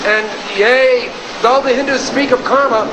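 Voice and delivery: put-on pompous old-fashioned preacher prayer; mock biblical prophet. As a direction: intone it like a grand King James prayer. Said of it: "a perfect example of how your prayer should look and sound".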